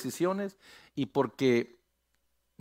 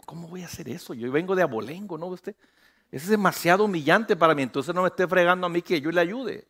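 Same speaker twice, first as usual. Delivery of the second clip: snobbish refusal; 2 semitones higher than usual. Acted. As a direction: mutter it, offended and above it all. Voices a haughty member refusing.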